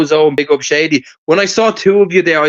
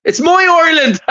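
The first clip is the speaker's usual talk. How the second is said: movie-line impression; 8 semitones higher than usual. Man quoting a favourite movie to his friends, high hammed-up impression. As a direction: deliver it as a big film catchphrase.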